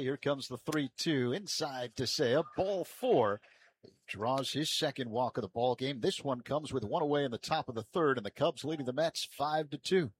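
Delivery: brisk baseball call with a lift on the result; live play-by-play. Real, not acted. Announcer calling a walk for radio listeners, live play-by-play. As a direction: call the pitch, then settle into the recap.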